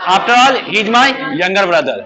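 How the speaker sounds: very slow, word by word, so the class can write it; slow dictation. Shown as a demonstration. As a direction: spell the sentence out slowly for copying. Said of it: "आखिरकार वो मेरा छोटा भाई है।". (धीरे-धीरे, एक-एक शब्द लिखवाते हुए)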